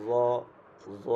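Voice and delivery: "র" said thin, rounded vowel; thin letter. Shown as a demonstration. Teacher contrasting it with ঝা, "র". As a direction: lighten the consonant of "র". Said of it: "এটা পাতলা হবে".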